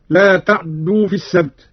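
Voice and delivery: تعدوا said "ta'ddu", closed ayn into doubled dal; Qalun's "ta'-ddoo" for تعدوا; vowelless ayn, doubled dal. Shown as a demonstration. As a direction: stop on the ayn, then press the dal in تعدوا. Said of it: "بإسكان العين".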